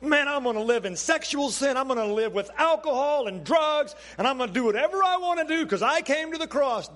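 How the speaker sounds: a hint of a cocky churchgoer bragging; lightly mocking a believer who lives as he likes; mock careless believer. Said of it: "we just say".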